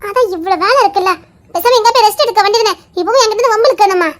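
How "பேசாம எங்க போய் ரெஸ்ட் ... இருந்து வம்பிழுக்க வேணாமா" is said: laughing. Real, not acted. Teasing husband, laughing.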